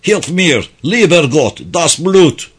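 high, desperate cries for help; voice cracking with despair. Acted. Dying German begging God for help, cracking with despair. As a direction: cry out in despair, pitched high. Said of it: "Sesi umutsuzlukla çatallaşıyordu".

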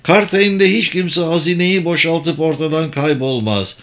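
a lightly voiced mage explaining the scheme; kendinden emin büyücü. Sabır defends the city. (kendinden emin, açıklayan büyücü sesi)

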